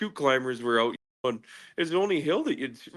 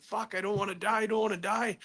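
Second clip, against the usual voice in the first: retold panicked plea; 7 semitones higher than usual. Teller relives tumbling in the avalanche, high panicked plea. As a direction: replay a desperate plea, pitch climbing.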